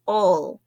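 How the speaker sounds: "ul" as the shared word ending; isolated "ul" sound. Shown as a demonstration. Teacher demonstrating the ending all words share, "ul" sounded out. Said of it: "they all have that sound of".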